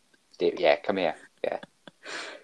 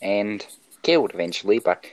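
put-on Australian accent. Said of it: "he is, in fact, from Australia".

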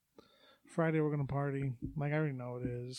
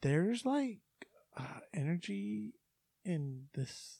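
lightly put-on voice with slow hesitations; imitating how she talks; 2 semitones higher, 3 dB quieter, much slower than usual. Host mimics woman sensing a ghost, lightly put-on halting voice. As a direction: mimic her feeling out the words. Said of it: "talking like that's how she talks".

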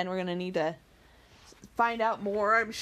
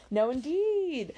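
slow, drawn-out show of earnestness; mock earnest denial; affected earnestness; 6 semitones higher, slower than usual. A narrator's reading. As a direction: play at being earnest, slowly. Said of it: "with affected earnestness".

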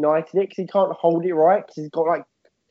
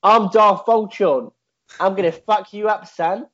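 British tough guy; 4 semitones higher than usual. Retold or imitated. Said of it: "He's gonna have a British accent".

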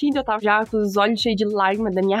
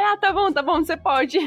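hammed-up hasty yes; 4 semitones higher than usual. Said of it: "Aí".

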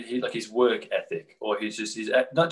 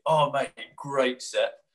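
drawn-out, higher polite mate line; slowed, drawling backstage praise; slow stock compliment; 4 semitones higher, much slower than usual. Retold or imitated. Band member at load-out, slow drawn-out compliment. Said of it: "loading out at the end of the gig".

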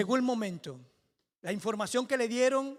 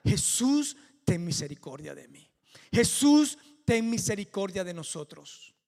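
crying out to Jesus; 5 dB louder than usual. Retold or imitated. Lepers shouting to Jesus for mercy, loud pleading calls. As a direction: call out for mercy with all you have. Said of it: "les hizo gritar".

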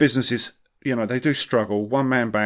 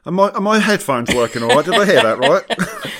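incredulous; 7 semitones higher, 7 dB louder than usual. Real, not acted. Shocked by the forum question.

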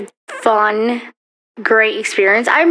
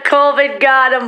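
put-on jokey Irish accent through the giggles; mock Irish accent; 2 semitones higher than usual. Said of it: "I wish I had that accent".

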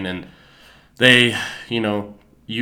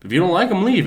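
high, louder mock indignation; retold defiant comeback; 9 semitones higher, 4 dB louder than usual. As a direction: imitate a performer standing his ground.

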